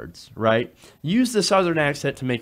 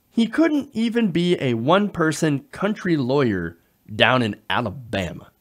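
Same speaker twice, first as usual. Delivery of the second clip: mock Southern accent. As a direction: mimic a Southern country accent mockingly. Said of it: "while using a Southern accent".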